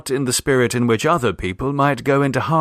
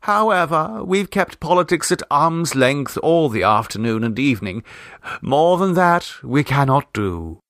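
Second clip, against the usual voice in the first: a lightly raised, chatty hostess; brisk hostess voice; 4 semitones higher than usual. Acted. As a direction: announce it like a bustling lady of the house. Mrs Demotte continues.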